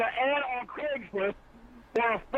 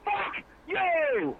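angry shout; 8 semitones higher than usual. Real, not acted. Angry man cussing out caller.

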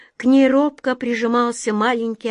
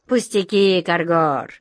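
dismissive; 2 semitones lower than usual. Acted. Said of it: "небрежно повёл плечом король".

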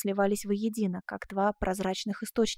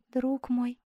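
tender; 2 semitones higher than usual. A narrator's reading. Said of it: "ласково отстраняя Асканио".

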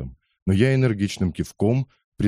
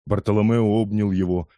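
ordinary delivery, nothing marked

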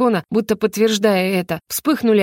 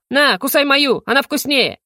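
higher, excited challenge; daring taunt; 5 semitones higher than usual. Acted. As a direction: dare the beast to bite. Yo-Yo offers his hand to dragon. (задорно, с вызовом)

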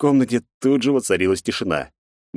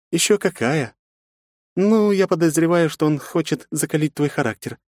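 high woman's voice asking gently; a caring aunt asking; curious woman; 10 semitones higher than usual. A narrator's reading. Aunt asks Nastya about mother.

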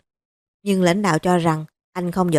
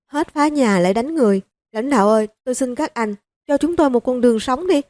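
mildly voiced desperate begging; an old mother-in-law begging officials for mercy, mild crying voice; 5 semitones higher than usual. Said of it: "Bà mẹ chồng tiếp tục khóc to".

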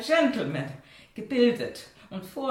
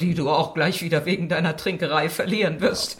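bitter; 4 semitones lower, 4 dB louder than usual. Acted. Wife quarrels with husband.

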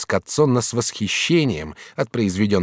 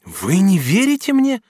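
higher, slower astonished question; surprised, annoyed; 10 semitones higher, 4 dB louder, slower than usual. Acted. Katrin, doubted by the master, astonished. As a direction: ask in offended surprise. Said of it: "вскричала Катрин с изумлением и досадой".

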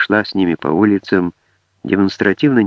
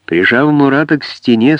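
usual speaking voice

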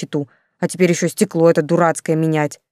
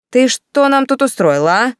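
louder, higher indignant telling-off; angry scolding; 7 semitones higher, 5 dB louder than usual. Acted. Commandant scolding Yulka over the smashed window, loud and angry. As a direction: scold the girl hard.

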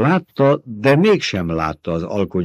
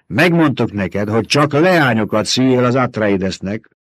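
put-on stern old mother superior; 4 semitones higher, 5 dB louder than usual. Old woman scolding.

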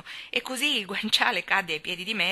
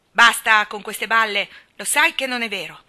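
loud, higher, dismissive scolding; pitiless; 4 semitones higher, 11 dB louder than usual. A narrator's reading. Mary dismisses her cousin's self-pity, pitiless. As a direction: cut him off without sympathy. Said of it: "senza mostrare il minimo segno di compassione".

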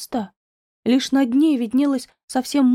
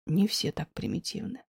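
wry chuckle; 5 semitones lower, 8 dB quieter than usual. A narrator's reading. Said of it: "усмехнулся он".

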